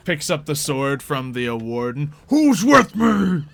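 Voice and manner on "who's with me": high, loud, drawn-out orc rallying cry; orc battle cry. Acted. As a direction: roar it slowly to rouse the troops. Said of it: "The orc who's in there is like".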